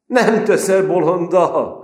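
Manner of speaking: put-on high, loud, slow country-boy question; peasant lad. Recruit asking Péter if he's fooling him, peasant drawl. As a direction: ask it like a wary village boy.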